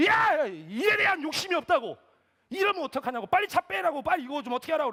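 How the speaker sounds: high, very loud demanding rant; angry outburst. Retold or imitated. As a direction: lose your temper and order them to act now. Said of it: "화를 내기 시작했어요". (화내며 고래고래 다그치는 말투)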